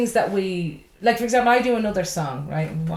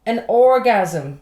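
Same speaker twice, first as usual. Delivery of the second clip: laughing; 2 semitones higher, 6 dB louder, much slower than usual. Real, not acted. Laughing punchline.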